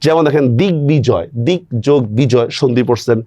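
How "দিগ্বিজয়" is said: দিগ্বিজয় as "dig-bijoy"; sounded b. Shown as a demonstration. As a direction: keep a clear b after g in দিগ্বিজয়. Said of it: "বফলার উচ্চারণ বহাল থাকে".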